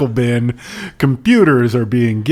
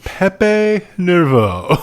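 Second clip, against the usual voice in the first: put-on French accent; 4 semitones higher, much slower than usual. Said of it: "Kinda sounds like Triumph the Comic Insult Dog".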